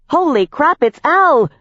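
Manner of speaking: high, loud squeak of alarm; panicked pixie squeak. A narrator's reading. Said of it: "Jenks squeaked".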